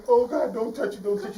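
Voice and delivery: high anxious pleading; lion fearing the thorn pulled; panicked lion. Acted. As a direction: beg her not to touch it. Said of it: "the lion said".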